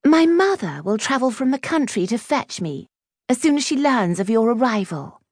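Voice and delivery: high, haughty announcement; prim, high-voiced disdain; snobbish Clementine. A narrator's reading. Voices snobbish Clementine ignoring others.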